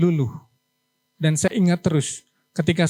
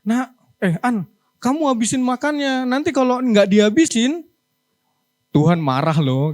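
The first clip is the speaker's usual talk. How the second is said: scolding parent; 3 semitones higher than usual. Retold or imitated. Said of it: "saya sering dibilang gini".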